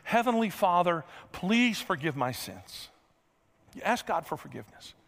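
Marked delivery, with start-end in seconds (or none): 0.0-2.9 slow, hushed model prayer. Shown as a demonstration. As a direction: pray it gently and sincerely. Leads a sample prayer.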